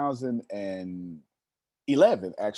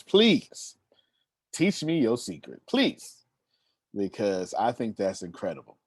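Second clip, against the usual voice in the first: pleading. Retold or imitated. Begging professor for his secret.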